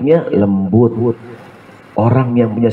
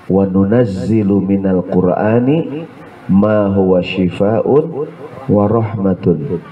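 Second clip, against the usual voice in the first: slow, measured Arabic recitation; slow reverent Quranic chant; 3 semitones lower, slower than usual. Acted. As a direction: recite the verse slowly and reverently. Quran verse recited slowly.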